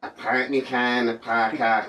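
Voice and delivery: Welsh accent attempt. Shown as a demonstration. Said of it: "say this to me".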